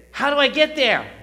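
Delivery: high, loud cry of how; pleading question. Pretend. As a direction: call it out, desperate to know. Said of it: "So you might say".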